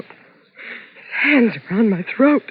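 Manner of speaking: slow, dwelling on the horror; haunted. Acted. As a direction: drag it out, still shaken. Reliving the attack.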